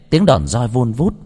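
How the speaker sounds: ordinary delivery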